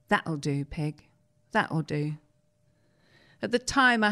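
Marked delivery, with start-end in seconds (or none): 0.1-1.1 tender film line. Retold or imitated. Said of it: "how he wanted me to deliver my final line". 1.5-2.2 soft final that'll do. Retold or imitated. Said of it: "Right down the lens".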